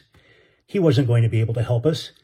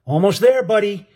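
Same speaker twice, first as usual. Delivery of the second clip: high encouraging shout; higher cheering call; 6 semitones higher than usual. Acted. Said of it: "Benny shouted".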